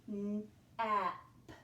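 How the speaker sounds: N-A-P said sound by sound; N-A-P stretched out slowly sound by sound. Shown as a demonstration. Teacher sounding out N-A-P to hear the vowel. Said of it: "Let's listen for where we hear that vowel".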